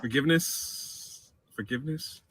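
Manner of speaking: reverent. Real, not acted. Reverent verdict on chicken.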